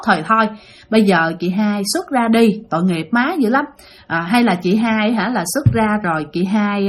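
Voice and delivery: mild retold coaxing, slightly softened; năn nỉ khuyên nhủ. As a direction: gently talk an upset spirit round. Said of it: "mọi người mới năn nỉ". (giọng năn nỉ nhẹ, kể lại)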